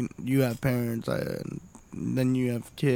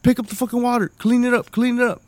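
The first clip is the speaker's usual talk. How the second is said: high, loud mock barking orders; hammed-up stern parent, pitched high; 9 semitones higher, 3 dB louder, faster than usual. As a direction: order the kids around in fake fury. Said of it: "I'm like".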